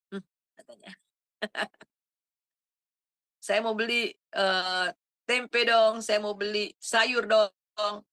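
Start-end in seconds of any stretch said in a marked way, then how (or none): 3.4-8.0 eager friendly request. Retold or imitated.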